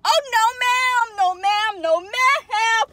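high, loud panicked pleading; panicked squeal. Real, not acted. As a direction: beg the spider away in panic. Spider flying at her.

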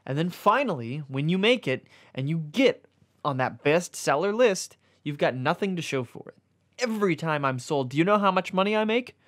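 rising frustrated complaint; a book venting its frustration. Acted. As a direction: build the grievance up to the question. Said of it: "clearly frustrated".

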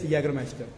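Jägermeister said with Y for the written J; pronunciation demo. Shown as a demonstration. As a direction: pronounce Jägermeister as YAY-ger-master. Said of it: "pronunciation is".

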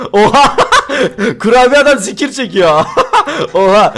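words bursting through laughter; laughing hard. Real, not acted. Gamer amused by the jerking cookie man, laughing hard. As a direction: crack up while exclaiming.

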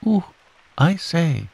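high little flustered noises; Piglet's exclamations. A narrator's reading. Piglet fussing on the bank, high exclamations. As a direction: exclaim it high, jumping about. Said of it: "jumping up and down and making".

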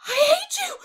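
very high, loud outburst of hate; enraged child's shriek; choked, furious cry. A narrator's reading. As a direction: scream it at her, choked with rage. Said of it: "she cried in a choked voice".

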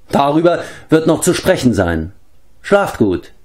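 a hint of menace under the courtesy; veiled threat. A narrator's reading. Grinning Dorat bids the travellers good night, lightly menacing.

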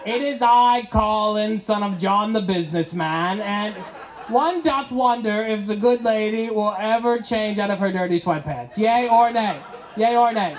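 grand mock-medieval address to milady; hammed-up courtly knight greeting his lady; overdone knightly courtier. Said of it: "I just really overdo it".

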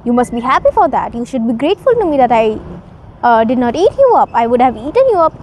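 fast, boastful bully of a tiger; smug predator taunting, quickened; gloating tiger. Acted. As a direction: rattle it off, mocking the little bird. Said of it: "The tiger was laughing".

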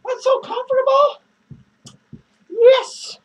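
loud, smug bragging with laughs; gloating. Real, not acted. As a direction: rub it in their faces. Gloating over his new chair.

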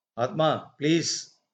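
hushed, understated appeal; soft plea. Acted. Wife begging her husband to relent, soft plea. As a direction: drop the voice and plead gently.

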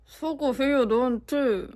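half-hearted sarcastic scolding; a light reproachful dig; mild scolding. Shown as a demonstration. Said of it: "아, 다시, 다시".

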